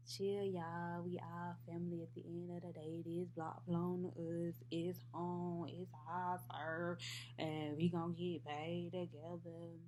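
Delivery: a hint of a laid-back, level-toned friend; smooth things over, evenly and unhurried; lightly voiced peacemaker. Spider calming two feuding friends, lightly voiced peacemaker. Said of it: "Spider just be sitting between us".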